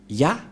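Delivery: ya set apart by a pause; ya pronunciation. Shown as a demonstration. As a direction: show how ya is sounded. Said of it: "ce terme se prononce".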